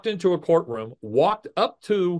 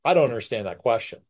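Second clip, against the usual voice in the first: mock stalling stammer; 4 semitones lower, faster than usual. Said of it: "she turns to the judge and goes".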